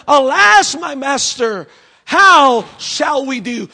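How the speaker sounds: a frightened servant seeing the army; alarmed servant. Acted. Servant crying out in alarm to his master.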